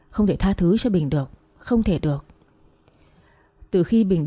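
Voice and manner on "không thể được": breathless unvoiced whisper to herself. A woman refusing to forgive, whispering to herself. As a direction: drop it to a bare whisper. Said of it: "tự nhủ".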